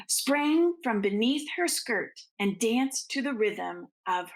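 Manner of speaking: gentle bedtime storytelling; storybook narration. Acted. Reading the Nutcracker aloud to children, gently paced. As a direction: read it like a picture book to little ones.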